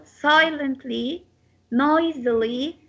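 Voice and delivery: "silently", "noisily" weighted on SI and NOI; slow words, "silently" and "noisily" stressed up front; stress on first syllable. Shown as a demonstration. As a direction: slowly lean into the starts of "silently" and "noisily". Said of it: "So the stress on sigh".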